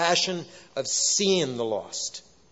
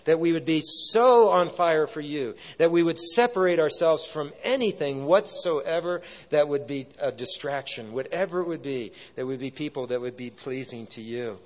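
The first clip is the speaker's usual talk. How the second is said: earnest prayer; 3 semitones lower than usual. Real, not acted. Preacher praying to the Lord for revival, earnest prayer.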